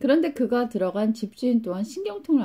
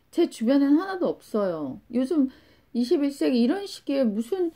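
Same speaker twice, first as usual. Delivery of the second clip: higher-pitched imitation of an indignant schoolgirl; retold anger; 6 semitones higher than usual. Middle schooler challenging the teacher about hunger, mock indignant. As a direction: play a student angrily disputing it, pitched up. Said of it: "그러면서 막 화를 내는 거예요".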